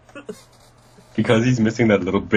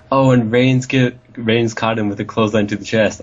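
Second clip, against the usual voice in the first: mimicking Michael Cole; 4 semitones higher than usual. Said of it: "Michael Cole was just like".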